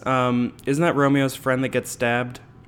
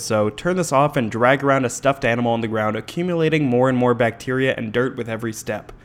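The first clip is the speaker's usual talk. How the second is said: long run without a breath; all in one breath. Shown as a demonstration. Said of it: "That was a hard one to say in one breath".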